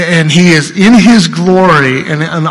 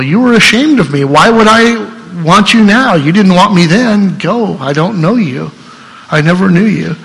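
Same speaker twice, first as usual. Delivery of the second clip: higher, sterner voice of Christ turning them away; stern rejecting Christ; 3 semitones higher than usual. Retold or imitated. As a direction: voice the judge sending them off. Jesus rejecting the unbelievers.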